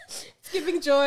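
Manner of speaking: loud laughing wail; laugh-cry it out. Retold or imitated. Laughing cry while listing.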